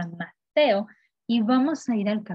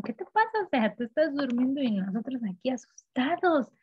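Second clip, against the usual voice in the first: alarmed complaint; 3 semitones higher than usual. Retold or imitated. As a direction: pitch it way up like startled disciples. Teacher voices disciples waking Jesus.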